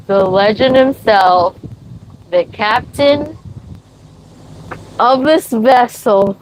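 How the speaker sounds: slow, drawn-out announcer voice, lightly done; mock grand announcement. Owner hailing the captain rising, slow mock announcer. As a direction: herald the captain's arrival with mock pomp.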